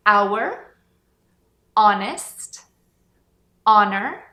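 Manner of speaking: our, honest and honor with no h, starting on the vowel; silent h. Shown as a demonstration. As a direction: drop the h and begin straight on the vowel. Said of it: "a gente não pronuncia essa letra H".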